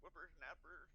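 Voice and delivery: put-on cranky old man yelling, high and slow; old prospector. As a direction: shake your fist like a grumpy old geezer. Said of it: "prestidigitate myself to look like an old man squirrel".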